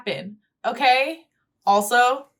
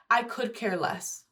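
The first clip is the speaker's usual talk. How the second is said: quiet; 9 dB quieter than usual. Retold or imitated. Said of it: "why would you say".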